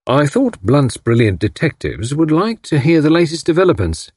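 understated good humour; hint of a smile. A narrator's reading. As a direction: say it with a slight smile. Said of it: "with a hint of a smile".

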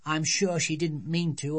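little girl lightly mimicking Mum's excuse; child quoting parents. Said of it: "They'd only say".

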